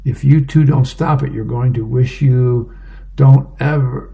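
mock scolding, firm then petering out; running out of steam. Mom scolding two kids, runs out of gas at the end. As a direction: start as a firm mom, fade to nothing. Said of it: "she just kinda ran out of gas there".

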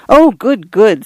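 put-on high, thrilled little girl; delighted. A narrator's reading. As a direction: squeal with delight. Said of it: "her dewy eyes shining".

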